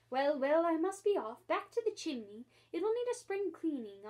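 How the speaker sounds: brisk. Acted. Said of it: "shook himself vigorously".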